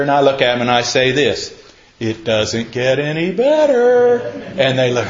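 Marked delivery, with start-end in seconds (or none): 2.0-4.2 slow, drawn out, climbing higher; teasing singsong. Acted. Pastor snickering at aching younger people, teasing singsong. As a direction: stretch it out, rising to a held last word.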